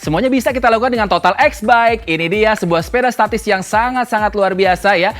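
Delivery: infomercial voice-over. Acted. Voice-over ad read with music.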